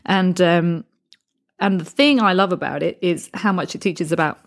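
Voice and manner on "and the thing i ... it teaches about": burp caught in the words; talking through a burp. Real, not acted. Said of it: "excuse me, I just had to burp".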